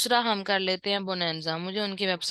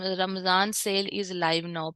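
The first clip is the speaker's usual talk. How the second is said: slow read-out; much slower than usual. Shown as a demonstration. Teacher reading the sample banner text aloud, unhurried. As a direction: read the banner line out slowly, evenly. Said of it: "यहाँ हम लिख देते हैं".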